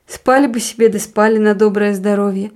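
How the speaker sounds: a hint of a gentle, coaxing woman; lightly voiced soothing persuasion; soft woman's voice. Wife urging the postman to sleep on, softly. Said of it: "услышал он мягкий женский голос".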